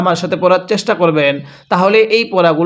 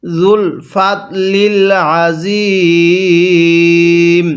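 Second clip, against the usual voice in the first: even slower, every vowel drawn long; slower recitation; much slower than usual. Shown as a demonstration. Teacher repeats it slower for learners. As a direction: stretch it further. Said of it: "হ্যাঁ, কিভাবে পড়ব?".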